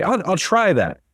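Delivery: stammered, doubtful "I'll, I'll try that"; a hint of someone unsure of themselves; unsure, hesitant. Speaker mimics someone who lacks confidence, hesitant. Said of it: "that signifies a lack of confidence".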